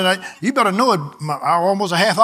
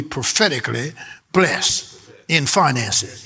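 slow dictation; 4 semitones lower, slower than usual. Shown as a demonstration. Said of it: "Write that down".

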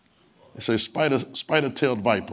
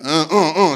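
put-on toddler grunts; 5 dB louder, slower than usual. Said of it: "She do like this and go".

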